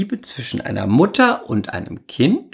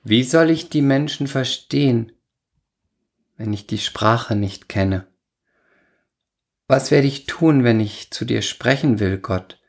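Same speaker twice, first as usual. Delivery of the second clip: ironic recital. Acted. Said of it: "Ich spüre hier zu viel Ironie".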